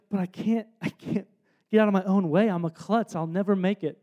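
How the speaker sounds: put-on softly, a defeated kid telling himself he can't; quiet despairing self-talk. Boy doubting himself alone, quiet and defeated.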